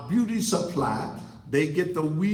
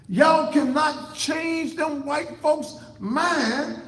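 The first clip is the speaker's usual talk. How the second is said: laughing in disbelief; 10 semitones higher, 5 dB louder, slower than usual. Real, not acted. Ranting at listeners, laughs mid-line.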